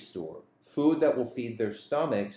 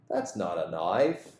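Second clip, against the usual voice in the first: imitated Australian movie tough guy, lower pitch; Australian accent; 4 semitones lower than usual. Crocodile Dundee facing thieves in the park, Australian accent. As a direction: put on a light Australian accent. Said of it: "That's my Australian accent".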